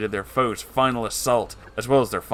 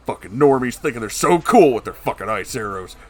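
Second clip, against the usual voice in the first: frustrated; 6 dB louder than usual. Acted. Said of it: "frustrated Joey".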